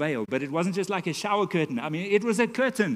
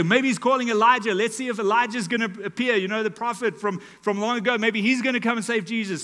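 mocking taunt; 4 semitones higher, 4 dB louder than usual. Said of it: "So mockingly".

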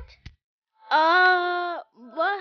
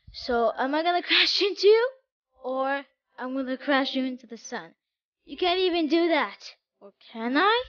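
lightly sinister villain voice, a bit raised; evil voice; 3 dB louder than usual. Acted. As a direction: play a hint of a menacing Blood Moon. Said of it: "evil voice or whatever".

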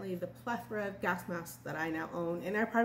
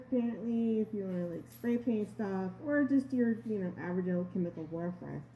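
muffled behind mask; through a gas mask; 2 semitones higher, 3 dB louder than usual. Real, not acted. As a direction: voice inside rubber mask. Seen 0: full-face gas mask worn over mouth throughout the labelled words.

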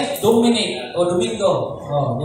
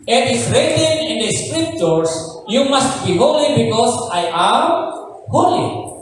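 scripture reading; slower than usual. Acted.

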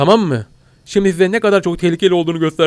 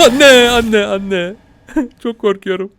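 laughing mock panic; 6 semitones higher, 4 dB louder, much slower than usual. Laughing fake fright.

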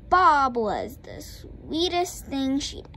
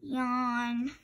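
yawn; 5 dB quieter than usual. A narrator's reading.

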